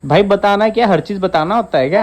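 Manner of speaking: annoyed husband arguing with his wife; heated protest. Real, not acted. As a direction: push back hard, exasperated. Couple's mock quarrel.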